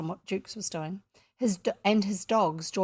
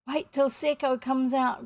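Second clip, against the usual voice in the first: raised, grumbling objection; growled; 5 semitones higher, 3 dB louder than usual. A narrator's reading. Starkey resists his captain's call, mild growl. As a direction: balk at the order. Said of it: "growled Starkey".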